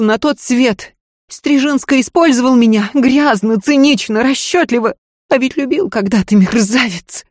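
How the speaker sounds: high, loud bitter rant; bitter desperate lady. Acted. Lady rants to her maid about her seducers, bitter. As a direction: spit out her contempt for the men.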